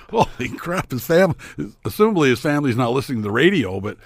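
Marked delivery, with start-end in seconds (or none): 0.1-1.3 high-pitched mock commentator reaction; hammed-up excited reaction; imitated excited outburst. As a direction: exclaim it in mock amazement, higher. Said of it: "It was like".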